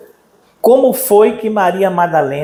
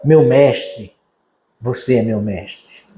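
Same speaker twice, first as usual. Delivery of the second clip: moved devotion; 6 semitones lower, slower than usual. Retold or imitated. Mary to Jesus, tender devotion. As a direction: breathe the words out in awe. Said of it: "jeito dela chamar ele".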